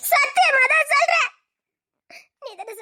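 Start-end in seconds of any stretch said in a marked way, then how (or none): 0.1-1.3 higher and louder, swearing it's true; insistent vow. Acted. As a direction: make him believe you, pushing hard. She insists she loves another.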